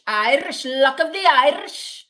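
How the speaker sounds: hammed-up attempt at an Irish lilt; put-on Irish leprechaun accent; bad Irish accent. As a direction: try an Irish brogue and overdo it. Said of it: "Do an Irish accent".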